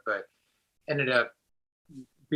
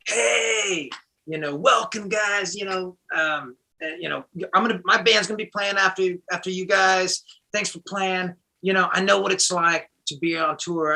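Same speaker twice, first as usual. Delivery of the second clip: bar owner; 6 semitones higher, 3 dB louder than usual. Retold or imitated. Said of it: "he's like".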